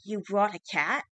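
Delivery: sudden worry cracks the sneer; concerned creature. Acted. Changeling seeing the cat, a little concerned. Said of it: "the creature sounded a little concerned".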